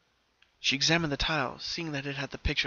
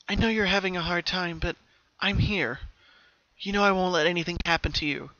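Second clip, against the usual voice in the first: comforting sister; 4 semitones higher, 4 dB louder than usual. A narrator's reading. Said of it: "trying to comfort the young pink filly".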